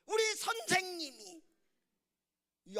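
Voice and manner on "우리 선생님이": put-on high, loud childlike retort; imitated defiant child. Son blames his teacher to his father, loud defiance. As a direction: shout back like a stubborn kid.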